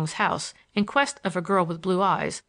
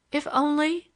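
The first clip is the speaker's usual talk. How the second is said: idly repeating; 8 semitones higher than usual. A narrator's reading. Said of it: "she repeated idly".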